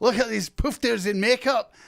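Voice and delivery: terrible put-on Scottish accent, loud and high. Imitating someone from Scotland, then admitting the impression was terrible: terrible impression of a Scottish person. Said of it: "That was a terrible im-".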